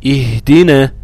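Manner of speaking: اهدنا with a breathed, vowelless هاء; still هاء. Shown as a demonstration. Teacher shows the sukun to students, still هاء in اهدنا. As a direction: let the هاء rest in اهدنا. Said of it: "وحرف الهاء ساكن".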